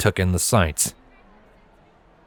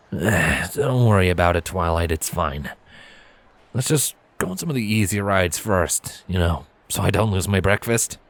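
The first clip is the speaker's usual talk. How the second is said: reassuring; 3 semitones lower than usual. Acted. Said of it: "reassuring squeeze".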